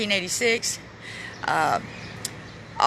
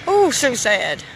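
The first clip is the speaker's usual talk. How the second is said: slow sad sigh; 3 semitones higher, much slower than usual. Real, not acted. Vlogger at the memorial, slowly saying it's sad. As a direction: let the sadness slow the words down. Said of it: "I'm getting really sad".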